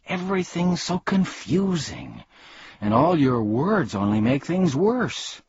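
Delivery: high, bewildered complaint; protesting. A narrator's reading. Milo overwhelmed by their wordplay, protesting. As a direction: protest that it is all too much. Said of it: "protested Milo".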